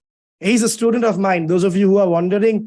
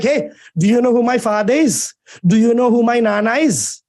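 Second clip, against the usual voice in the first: higher-pitched mock indignant girl; indignant challenge; 4 semitones higher than usual. Girl confronts a man who yelled at her, indignant. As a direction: challenge them, pitched up, dragging the last word.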